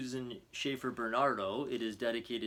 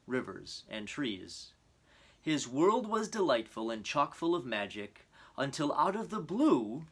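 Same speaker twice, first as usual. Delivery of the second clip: storytelling voice. A narrator's reading. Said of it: "Papa opened the book and began".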